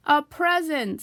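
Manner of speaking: Piglet bursts out loud and high. A narrator's reading. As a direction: blurt it out loudly. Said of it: "said Piglet very loudly".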